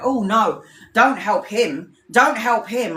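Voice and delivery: mock emphatic warning, drawn out; imitated worked-up protest. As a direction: imitate a reader going in on one. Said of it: "was really going in on one".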